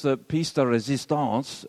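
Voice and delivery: put-on a touch of playful French accent. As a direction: say it lightly à la française. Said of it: "so I could do my French accent".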